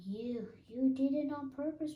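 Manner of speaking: high, loud sputtered protest; sputtering. A narrator's reading. Piglet with a mouthful of soap, sputtering at Kanga, high and loud. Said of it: "sputtered Piglet".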